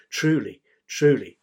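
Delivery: each TRULY set apart with a falling tone; emphatic. Shown as a demonstration. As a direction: stress both words, TRULY, TRULY. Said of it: "emphasis, emphasis".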